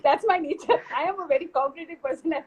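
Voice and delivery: real laughter breaking into the words; amused, laughing as you talk; laughing admission. Real, not acted. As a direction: own up to it through a laugh. Teased about being competitive, laughs along.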